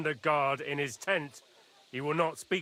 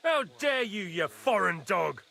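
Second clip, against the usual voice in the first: furious insult; 2 semitones higher than usual. Acted. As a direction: spit the insult with contempt. Lord insulting the healer.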